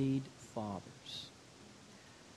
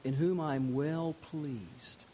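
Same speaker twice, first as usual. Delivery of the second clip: voice from heaven; slower than usual. Retold or imitated. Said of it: "And that voice said".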